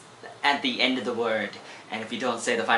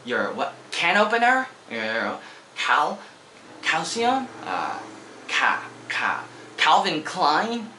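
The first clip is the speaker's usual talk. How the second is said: mock confusion; 6 semitones higher, slower than usual. Mock confused listener guessing.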